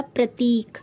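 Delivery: प्रतीक with long ee, "pra-teek"; correct form. Shown as a demonstration. Teacher giving the correct word, प्रतीक with long ee. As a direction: hold the 'tee' in प्रतीक. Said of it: "तब ये हो जाएगा".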